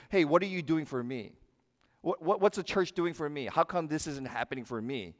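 mock entitled churchgoer, lightly voiced; entitled whining. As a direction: poke fun at a self-centred church member. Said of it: "we talk like this in church".

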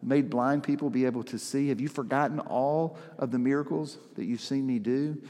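lightly voiced tender Jesus, pleading not scolding; compassionate. Jesus reminding disciples of his miracles, gently compassionate. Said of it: "You can almost hear the compassion in Jesus's voice".

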